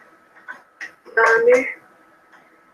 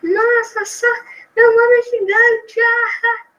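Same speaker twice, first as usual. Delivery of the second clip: high, giggly mock of players gloating; mocking laughing gamers; 9 semitones higher, 3 dB louder, slower than usual. Streamer mocks other players laughing at their huge name, high giggly voice. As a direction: mimic the players cackling at their giant name. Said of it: "Os caras iam ficar dando risada assim".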